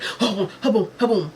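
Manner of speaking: voiced imitation of a fry basket shake; everyday "ha boom" shaking sound; normal fryer-shaking noise. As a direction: imitate shaking fries at ordinary force. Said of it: "that's how it would normally sound".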